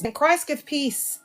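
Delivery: drawn-out church phrase, gently mocking; mimicking preacher. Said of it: "That's how they talk in there".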